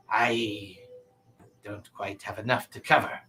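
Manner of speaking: lightly voiced, hesitant merchant; a touch of merchant character, haggling with regret. Game master voices the merchant.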